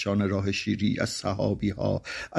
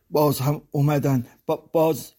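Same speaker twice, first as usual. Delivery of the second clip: put-on higher, frightened child stumbling on the word; terrified stammer; 5 semitones higher than usual. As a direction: stammer in fear as a small child. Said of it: "وحشت زده و با زبان لکنت گرفته گفت".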